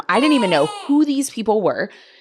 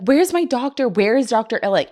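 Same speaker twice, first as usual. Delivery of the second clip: worked up; 5 semitones higher than usual. Retold or imitated. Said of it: "I'm getting all worked up".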